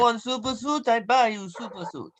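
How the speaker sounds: lightly voiced diva designer; Edna Mode. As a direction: offer it like a pushy designer. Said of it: "Edna Mold from The Incredibles".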